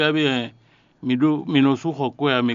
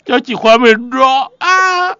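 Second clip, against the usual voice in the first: laughing; 13 semitones higher, 9 dB louder, slower than usual. Real, not acted. Host laughing out the punchline.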